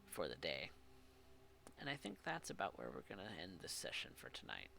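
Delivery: low, soft closing narration; game master narration. Acted. Game master narrates the session's close.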